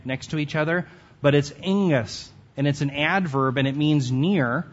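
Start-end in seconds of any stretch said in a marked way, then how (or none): 1.6-2.3 angus said as ING-us, stressed first syllable, falling; careful pronunciation. Shown as a demonstration. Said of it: "I always have a trouble with this one".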